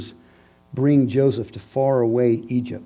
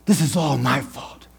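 grieving Jacob. Acted. Jacob blaming himself, grief building. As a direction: let the blame start to swell. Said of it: "walking around blaming himself".

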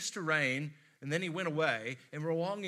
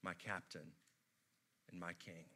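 dying whisper; 8 semitones lower, 14 dB quieter than usual. Retold or imitated. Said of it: "he looks at him and he says".

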